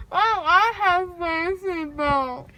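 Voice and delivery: whiny crying question; tearful, pleading with mom. Real, not acted. Child whining at mom about seatbelt.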